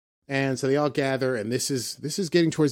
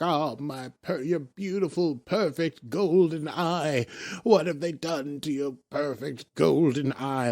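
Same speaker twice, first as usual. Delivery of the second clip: a lightly voiced maniac drooling over the golden eye, slow; half-mocking crazed doting voice; real maniac; 3 semitones higher than usual. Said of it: "Like a real maniac".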